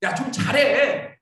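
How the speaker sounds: mock scolding, slow and drawn out; mild reproach. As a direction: act out a light telling-off, stretching the words. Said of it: "이 책망이 뭐예요?".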